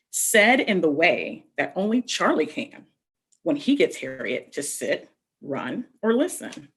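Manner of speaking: put-on slow, gentle read-aloud to children; storybook reading. A narrator's reading. Teacher reading a picture book to young children, slow gentle storybook narration.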